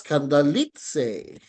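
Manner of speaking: "kandalitse" slowly, jumping up on "li"; rising accent. Shown as a demonstration. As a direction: lift the pitch sharply on "li" in "kandalitse". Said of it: "And pataas".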